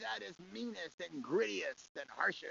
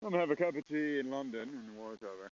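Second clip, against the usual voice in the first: put-on British accent; 3 semitones lower than usual. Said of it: "The British guys are".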